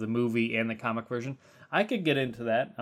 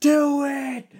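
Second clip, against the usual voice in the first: very high, very loud, shrill screech; 9 dB louder than usual. Imagining a character's super move as just screaming: imitating Rorschach screaming. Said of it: "his super move should be just him screaming".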